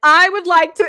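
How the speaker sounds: put-on bold, self-assured big-girl voice. Recalling asking the Spirit for what she wants, speaker answers in a put-on big girl voice. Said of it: "like in a big girl voice".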